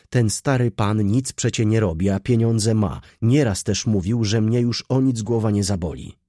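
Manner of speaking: put-on defiant young girl. Girl arguing with Wokulski about work, voiced defiance. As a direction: argue back as the stubborn girl.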